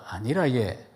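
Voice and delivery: lightly imitated Gyeongsang speech; Gyeongsang dialect. Shown as a demonstration. Preacher comparing dialects for the congregation, Gyeongsang version. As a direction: say it as a Gyeongsang local would. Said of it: "경상도 말로".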